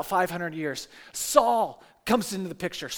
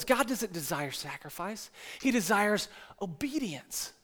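much softer, slow and weighty; soft solemn verdict; 8 dB quieter than usual. Retold or imitated. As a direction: lay down the truth quietly.

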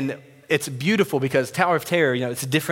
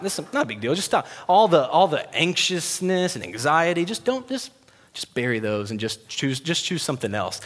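mock dismissive husband; 3 semitones higher than usual. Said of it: "my response shouldn't just be".

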